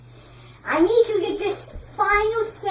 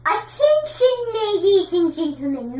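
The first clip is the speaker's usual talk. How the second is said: announcer voice. Pretend. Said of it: "I'm gonna do the introduction".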